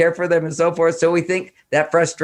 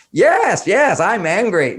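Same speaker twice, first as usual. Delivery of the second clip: put-on angry child; 7 semitones higher, 4 dB louder, slower than usual. Child voiced in story.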